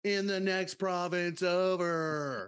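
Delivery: bro storyteller stretching the punchline; surfer-dude bro. Retold or imitated. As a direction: tell it like a party dude, dragging the last words. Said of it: "that's how I feel you talk".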